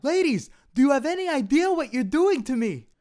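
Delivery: high, flirty put-on voice; high impression voice. Suave impression.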